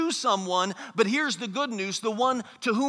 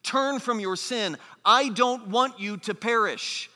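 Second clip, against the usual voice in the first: earnest, slightly raised plea; begging; 2 semitones higher than usual. Acted. Preacher voices God begging humanity, earnest plea. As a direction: implore them not to be lost. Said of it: "God is begging humanity".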